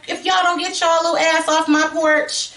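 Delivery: high-pitched, indignant acted scolding; furious mother. Retelling Judy chasing the girls off her porch, furious. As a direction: act out an outraged telling-off. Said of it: "Judy is furious".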